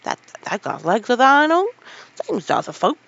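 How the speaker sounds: loud, stout Yorkshire assurance. Acted. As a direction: insist firmly and loudly. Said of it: "he said stoutly".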